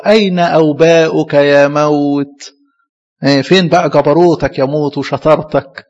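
slow, loud proud taunt at death; triumphant prophet taunting death, slowly. Acted. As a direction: declaim it like a victor mocking death. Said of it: "فالنبي بقى في فخر بقى".

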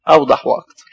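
a hushed whisper of the answer. Acted. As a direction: breathe "أوضح وأكتر" in a whisper. Answering his own question. (إجابة هامسة)

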